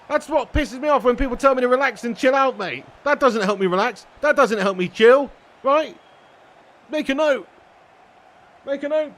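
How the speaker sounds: loud, emphatic hammed-up rant; mock rant. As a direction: keep the fake fury going.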